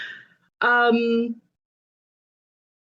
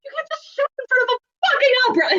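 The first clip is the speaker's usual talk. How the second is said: fast rant that climbs much higher at the end; ranting building to shouting; 3 semitones higher, much faster than usual. Acted. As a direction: build from a rapid scold to a shout. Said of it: "going off in orc ... starts shouting".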